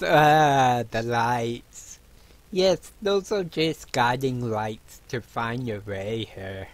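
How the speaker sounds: hint of a knowing dwarf; lightly voiced dwarf innkeeper. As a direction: lightly play a dwarf host explaining.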